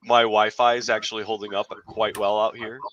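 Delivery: room echo; echoey garage sound. Real, not acted. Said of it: "I sound a little echoey".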